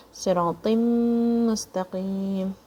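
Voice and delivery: "صراط مستقيم" joined through one long hummed m; one merged meem. Shown as a demonstration. Teacher showing the joining, one humming meem in "صراط مستقيم". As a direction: run "صراط" into "مستقيم" on a single held m. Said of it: "say it with one meme sound".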